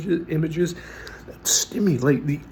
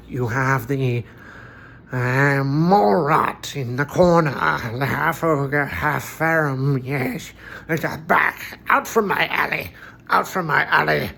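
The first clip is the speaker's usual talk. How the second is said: a hint of a deeper, harsher ogre voice; charismatic, friendly ogre charm, lightly voiced; ogre character voice. Shown as a demonstration. Game master voicing the ogre Bog Vulgus at the table, a touch deeper and harsher. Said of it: "I really go deeper and harsher with the things he says".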